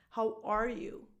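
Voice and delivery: ARE carries the main weight; stress on ARE. Shown as a demonstration. Coach showing the verb matters most, ARE stressed. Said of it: "because the verb is the most".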